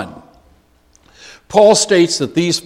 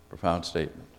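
repeated much softer, almost to himself; soft echo; 8 semitones lower, 13 dB quieter, faster than usual. Real, not acted. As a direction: let the words sink in quietly.

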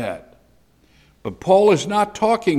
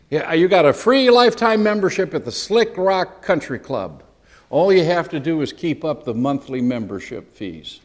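salesman's pitch; 3 semitones higher, 3 dB louder than usual. Retold or imitated. Preacher mimicking a country club's bait and switch, salesman's pitch. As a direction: pitch the free offer big, then slip in the catch more evenly. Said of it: "the guy that said".

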